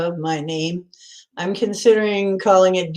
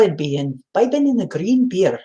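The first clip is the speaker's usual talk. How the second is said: "imbibing in the green beer" in a somewhat better mock-Irish accent; second, improved Irish accent on "imbibing in the green beer". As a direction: try the Irish lilt again, a bit closer. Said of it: "That's a little better".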